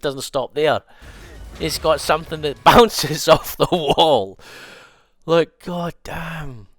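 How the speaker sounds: loud, high, laughing hype; excited shout. Real, not acted. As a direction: shout it in delighted disbelief. Hyped by wall bounce.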